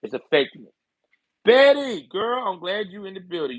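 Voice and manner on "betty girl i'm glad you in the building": calling out. Real, not acted. Calling out to a viewer.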